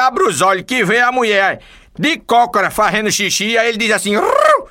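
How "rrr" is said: high squawking parrot voice, louder. Acted. Parrot under the bed squawks its relief.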